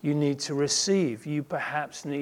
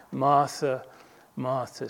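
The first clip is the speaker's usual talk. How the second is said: heart-to-heart; 2 semitones lower than usual. Acted. Jesus speaking to someone he knows, heart-to-heart. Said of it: "a real heart-to-heart address".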